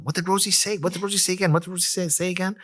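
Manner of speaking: imitating confused listeners in a high, monotone run; high-pitched mock confusion, each question tumbling into the next; broken-telephone chatter. Traders asking each other what Rosie said, confused high chatter. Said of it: "a game of broken telephone".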